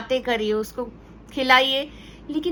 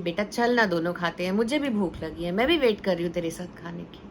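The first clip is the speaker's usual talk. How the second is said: lovingly; 5 semitones lower than usual. Retold or imitated. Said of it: "मैं प्यार से कहती थी".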